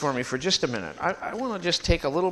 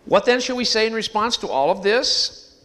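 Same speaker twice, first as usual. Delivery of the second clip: raised, higher, louder reading voice; loud scripture reading; 8 semitones higher, 8 dB louder than usual. Real, not acted. Preacher reading the verse aloud to the congregation, proclaimed.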